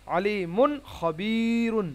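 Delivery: আলিমুন খবিরুন slowly, long "ii", clear "n"; izhar and madd. Shown as a demonstration. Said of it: "এখানে ইজহার হবে".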